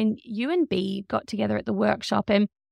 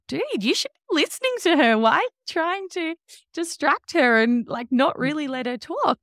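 mock indignation; 5 semitones higher than usual. Acting the audience's indignant reaction.

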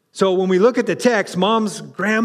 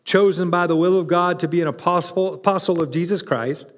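scripture reading; 3 semitones lower than usual. Acted. Preacher reading scripture to the congregation, measured. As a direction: read the letter aloud with reverence.

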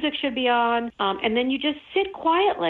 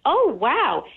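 mock wonder; 5 semitones higher than usual. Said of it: "people say".

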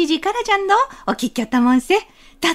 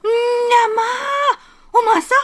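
slow drawn-out astonished cry; mock amazed old woman; startled grandmother; 5 semitones higher, slower than usual. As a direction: gasp it out in wonder.

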